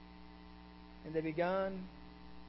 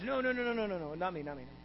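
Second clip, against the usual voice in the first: hurried denial; faster than usual. Acted. Preacher voices Peter denying Jesus, hurried and fading. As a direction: deny it hastily, trailing down to almost nothing.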